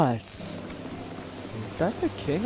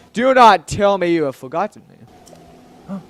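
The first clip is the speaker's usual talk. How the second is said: slow, lightly put-on regal voice; a hint of a stately manly king; deep manly voice; 4 dB louder than usual. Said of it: "let's give him a deep, manly voice".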